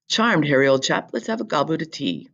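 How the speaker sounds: lightly put-on British accent; a touch of British English. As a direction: read it like a British chap. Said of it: "this is how people in Britain talk".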